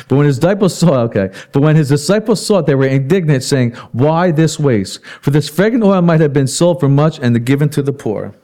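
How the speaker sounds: loud, emphatic Bible reading from the pulpit; scripture reading. A narrator's reading. Preacher reads the disciples' complaint to the congregation, loud scripture reading. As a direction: read the verse out firmly, projecting.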